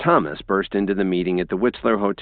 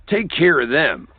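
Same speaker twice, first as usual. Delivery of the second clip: high, loud dismissive order; loud, higher curt command; cold order; 9 semitones higher, 5 dB louder than usual. A narrator's reading. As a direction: dispose of them without a glance. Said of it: "Thomas said".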